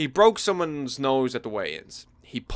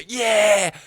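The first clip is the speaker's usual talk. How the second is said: loud, high mock cheer; 8 semitones higher, 6 dB louder than usual. The speaker cheering the groom from the back, loud whoop. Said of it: "cheering you".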